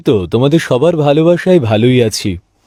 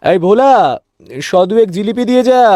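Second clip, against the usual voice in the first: calling out; 5 semitones higher than usual. Acted. Shopkeeper calling his helper Bhola, raised call. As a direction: call the boy from the counter.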